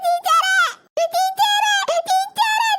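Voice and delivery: put-on child calling the teacher for help. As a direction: yell for the teacher, upset.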